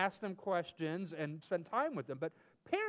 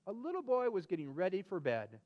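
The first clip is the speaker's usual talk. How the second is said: storybook reading. Acted. Story narration to kids.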